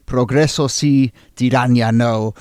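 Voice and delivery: put-on flexing a Spanish accent a little; showy Spanish accent for a quoted slogan. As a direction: deliver the motto in accented Spanish. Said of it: "to flex that accent a little bit more".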